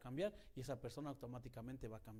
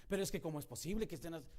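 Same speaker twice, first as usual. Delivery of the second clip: mock angry protest; 4 semitones higher, 8 dB louder, faster than usual.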